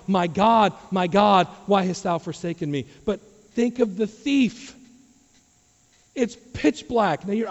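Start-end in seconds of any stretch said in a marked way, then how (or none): 0.1-2.8 loud imitated cry to God, falling off. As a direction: preach it as an anguished outcry. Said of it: "Jesus is up in heaven crying".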